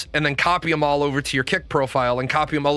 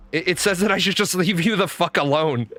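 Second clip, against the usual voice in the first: laughing; 3 semitones higher than usual. Retold or imitated. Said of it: "he starts laughing".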